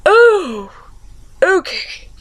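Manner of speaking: lightly acted let-down hobbit; Bilbo. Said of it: "and Bilbo's all".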